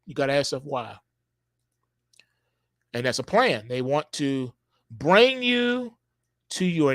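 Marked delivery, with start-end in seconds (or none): none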